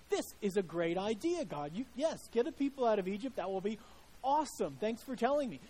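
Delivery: hammed-up delighted Moses; eager Moses. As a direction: gush like a thrilled follower. Moses voiced, eager reply.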